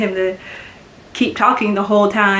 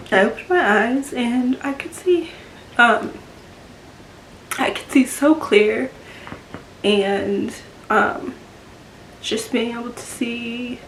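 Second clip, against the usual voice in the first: tearful, pitch lifting at phrase ends; moved, close to tears; real emotion; 3 semitones higher than usual. Real, not acted. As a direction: push on gently while choked up. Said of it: "gonna get a little emotional".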